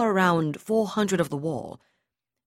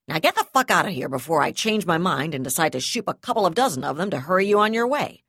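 loud angry order, speeding up; furious dismissal; 6 dB louder, faster than usual. Acted. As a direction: throw him out, yelling.

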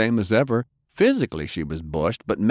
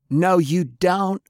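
shouted; 10 semitones higher, slower than usual. Acted. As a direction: yell it right into her ear. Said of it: "Faye shouted in her ear".

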